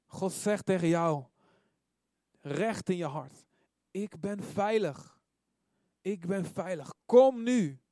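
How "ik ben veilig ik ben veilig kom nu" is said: slow appeal building to a loud cry; God's urgent call. Acted. God speaking right into your heart, building urgent call. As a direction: start measured, then ring out high and loud. Preacher voices God calling.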